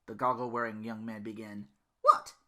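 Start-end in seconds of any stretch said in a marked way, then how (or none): 2.0-2.3 loud curt what; loud irritated snort-reply; snorted retort. Acted. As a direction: throw it back with a snort. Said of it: "Belle snorted back".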